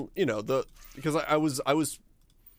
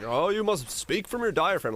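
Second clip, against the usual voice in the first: mock advice; 6 semitones higher than usual. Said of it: "it's like".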